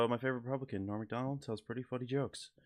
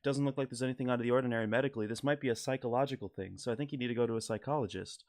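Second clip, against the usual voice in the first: Norm Macdonald impression; 2 semitones higher than usual. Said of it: "this is my rendition of the Norm Macdonald joke".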